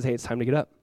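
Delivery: low, soft, gentle rousing; tender waking. Retold or imitated. Jesus takes girl by the hand, gently waking her. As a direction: say it softly to a sleeper. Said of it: "Jesus is doing that".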